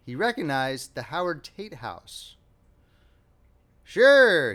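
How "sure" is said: "Sure" much louder and higher, falling; emphatic. A narrator's reading. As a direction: hit "Sure" hard and high. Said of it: "he said emphatically".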